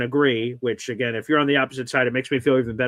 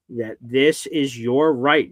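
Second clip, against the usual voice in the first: slow, deliberate emphasis; clear as possible; slower than usual. Real, not acted. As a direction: spell it out slowly for your co-host. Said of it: "make this as clear as possible".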